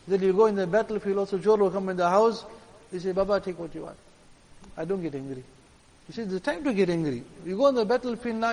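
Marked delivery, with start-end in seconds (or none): 3.1-5.4 mild, lower and softer, giving way; acted meekly passive, trailing softer; too chill. Preacher mimicking a man too chill to resist a thief, meekly passive. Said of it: "You can't be now so chill".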